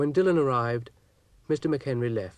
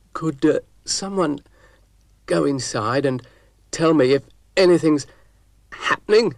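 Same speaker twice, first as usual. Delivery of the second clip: higher, louder call from the roof; man on the roof calling to those inside, higher and louder; 5 semitones higher, 9 dB louder than usual. Acted. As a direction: shout down the chimney for news.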